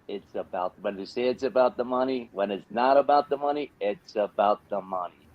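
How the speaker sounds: lightly put-on American accent. Shown as a demonstration. Asked for his American accent, lightly put-on American. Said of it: "do the American accent".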